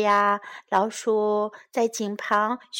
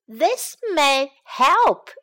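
hopeful idea; 4 semitones higher, 5 dB louder, slower than usual. Acted. Mouse has an idea.

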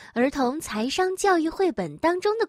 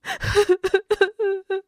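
sobbing; 7 semitones higher, 3 dB louder than usual. Acted. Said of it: "小袋鼠越哭越伤心".

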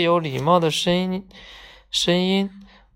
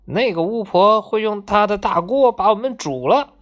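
put-on scared boy; 4 semitones higher than usual. Boy fears witch will cook them.

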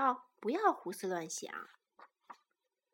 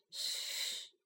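hushing; 7 dB quieter than usual. Acted. Carmen hushing them.

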